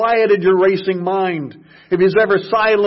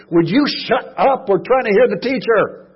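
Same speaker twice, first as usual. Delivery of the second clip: raised, irritated snap; annoyed crowd; 7 semitones higher, 5 dB louder than usual. Retold or imitated. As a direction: shush the noisy beggar. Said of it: "people began to get annoyed".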